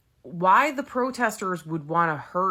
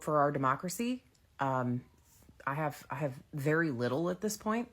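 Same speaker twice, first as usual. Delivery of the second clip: muffled behind a mask; through a face mask; 4 dB quieter than usual. Real, not acted. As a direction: speak through a cloth mask. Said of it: "I hope you'll excuse the mask".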